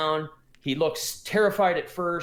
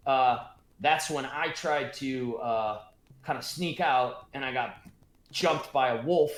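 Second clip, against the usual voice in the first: dwarf Gundren; 3 semitones lower than usual. Acted. DM voices dwarf recounting.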